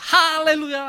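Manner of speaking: loud high hallelujah; joyful praise. Acted. Healed beggar bursts into praise, loud and high. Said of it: "찬양을 했습니다".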